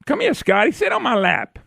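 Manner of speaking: pat him on the head with your voice; mock patronising elite. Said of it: "where the elite said".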